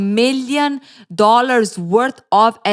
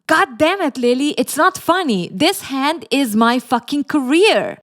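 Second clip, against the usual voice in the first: higher-pitched scolding, not shouted; acted angry outburst; 6 semitones higher than usual. Ryle scolds Lily for laughing at his hand, acted anger. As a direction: play exasperated anger, pitch raised.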